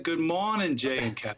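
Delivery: put-on Boston accent greeting. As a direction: drop the r like a Bostonian. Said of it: "Can I work on my Boston accent?".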